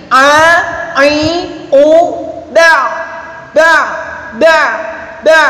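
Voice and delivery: "ba" closing on a briefly squeezed throat sound; half-held ain. Shown as a demonstration. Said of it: "ain berarti ini tawassul".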